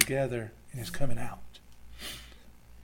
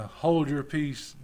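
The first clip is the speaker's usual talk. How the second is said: stern; much slower than usual. Acted.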